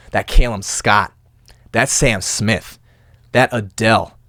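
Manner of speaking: slow, low, drawn-out names; knowing tease. Real, not acted. Host calls out a dumped listener's breakup songs, slow knowing tease. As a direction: list each name slowly and low, with pauses. Teasing list of breakup music.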